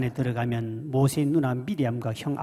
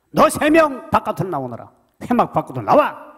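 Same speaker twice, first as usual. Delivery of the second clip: loud divine call; commanding summons; 6 semitones higher, 7 dB louder than usual. Acted. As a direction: call them out with authority. God summons the three. (하나님이 세 사람을 부르는 큰 호령)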